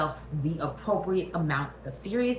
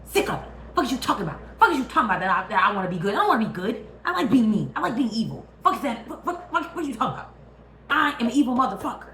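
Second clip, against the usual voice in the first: loud, higher ranting villain; ranting Skeletor; 4 semitones higher, 4 dB louder than usual. Retold or imitated. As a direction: spit it out, proud to be evil. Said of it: "And Skeletor said".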